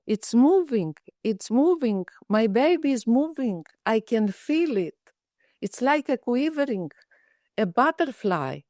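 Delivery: mildly thrilled, retelling her joy; a hint of a patient's delight at her baby moving; excited. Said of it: "with excitement, she said".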